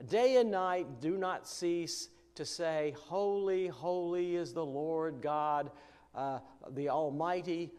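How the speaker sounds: measured, reverent Bible reading from the pulpit; scripture reading. Acted. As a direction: read it out as holy words. Reads Revelation passage aloud.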